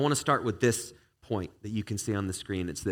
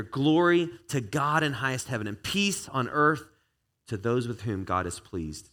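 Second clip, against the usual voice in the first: slow, proclaiming read of the verse; scripture reading; 2 semitones higher than usual. Acted. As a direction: lift it like a heavenly announcement.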